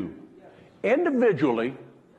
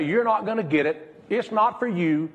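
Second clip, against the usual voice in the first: mocking naysayers; 8 semitones higher than usual. Doubters telling the hearer they are worthless, scornful and rising. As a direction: jeer it like a scornful crowd. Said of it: "Everybody else can say".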